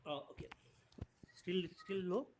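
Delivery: faint, soft voice; quietly checking if heard; barely audible. Real, not acted. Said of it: "your voice is very low".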